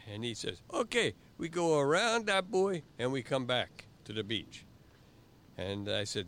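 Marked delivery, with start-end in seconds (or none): 0.7-4.6 high, loud island voice pointing out the buoy; much higher, louder mock island guy; Jamaican instructor. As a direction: play the eager local instructor. Instructor proposes course.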